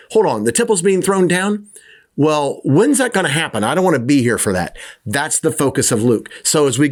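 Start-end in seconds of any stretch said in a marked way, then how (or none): 0.1-4.8 higher, anxious mock questioning; worried disciples. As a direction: play the disciples fretting about being there. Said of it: "which Jesus also covered".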